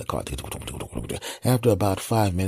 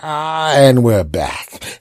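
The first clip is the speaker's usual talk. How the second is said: relieved back voice; 7 semitones higher, 8 dB louder, much slower than usual. Pretend. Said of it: "your back is like".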